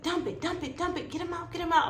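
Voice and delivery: high, rapid repeated orders; frantic urgency. Retold or imitated. Surgical team getting baby out, frantic. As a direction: imitate surgeons racing to deliver.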